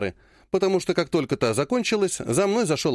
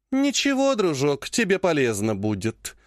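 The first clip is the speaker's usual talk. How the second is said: falsely gentle. Acted. Clan head kindly pronouncing the punishment. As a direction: soothe him while sealing his fate. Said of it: "Опять перешла на ласковый тон".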